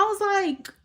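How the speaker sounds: ordinary talk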